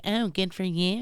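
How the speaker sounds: soft, snide "good for you"; mock congratulation; sarcastic. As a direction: sneer it lightly, as fake congratulations. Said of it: "that's always so sarcastic".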